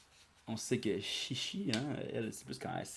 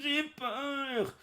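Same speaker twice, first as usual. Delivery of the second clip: very high, silly frightened squeal; mock girlish fear. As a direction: laugh then squeal in fake fear. Girl voice again.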